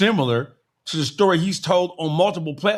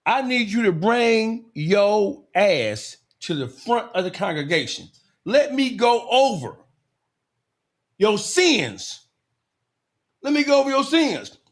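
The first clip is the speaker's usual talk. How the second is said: mock preacher. Mock sermon to the congregation.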